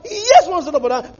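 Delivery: fast, laughing reply; laughing answer. Real, not acted.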